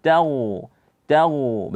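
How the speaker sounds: "taghu" with a light ta, thickening only at gh; thin ta. Shown as a demonstration. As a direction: keep the ta of "taghu" thin before the heavy gha. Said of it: "Ta tipis".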